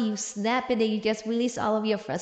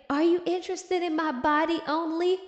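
higher voice with a lightly hammed-up question; mock echoing thought; 4 semitones higher than usual. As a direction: replay his question teasingly. Intrusive thought echoes Henry's question.

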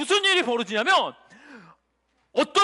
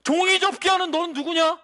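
high, raised-voice confrontation; accusing challenge; 4 semitones higher than usual. Acted. Demon confronting chattering children during worship, high accusing challenge. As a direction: call the culprit out in a high, forceful voice.

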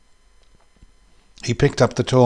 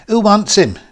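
loud, high, rough challenge; raised, scornful shout; rough cry; 10 semitones higher, 7 dB louder than usual. A narrator's reading. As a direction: call it out roughly to the group.

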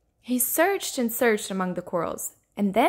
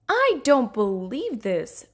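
slow, drawn-out exasperation; frustrated disbelief; 3 dB louder, slower than usual. Acted. Rainbow Fish losing at hide and seek, frustrated disbelief. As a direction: stretch it out in disbelief. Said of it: "Rainbow Fish thought".

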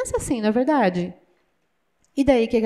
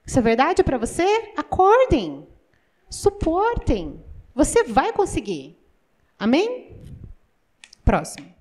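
ordinary talk

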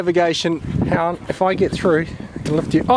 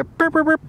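high-pitched little "burp" sounds; mock burping noises; 11 semitones higher than usual. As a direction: go high for quick pretend burps. Imitated noise, playful.

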